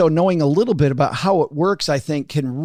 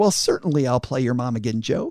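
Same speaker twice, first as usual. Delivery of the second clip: kindly, sweet, very nice motherly voice; 4 semitones lower, 4 dB quieter than usual. Retelling his mother agreeing to play his mom again, imitating her nice mom voice. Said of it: "in her very nice mom voice".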